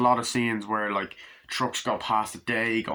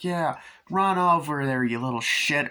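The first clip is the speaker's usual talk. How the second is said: mock dad; 5 semitones higher than usual. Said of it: "And I was like".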